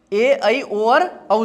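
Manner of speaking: slow, each vowel "ओ" and "औ" drawn out; careful slow dictation of "ओ और औ"; slow vowel demo. Shown as a demonstration. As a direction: spell the vowels out slowly for the class. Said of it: "इसको सुनना ध्यान से".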